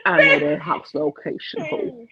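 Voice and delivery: high, loud laughing warning; laughing threat. Real, not acted. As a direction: tease the ex with a cackle.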